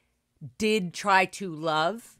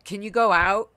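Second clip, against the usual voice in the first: shoving her out; 3 semitones higher, 6 dB louder than usual. Retold or imitated. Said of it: "Like, shoving her out the door".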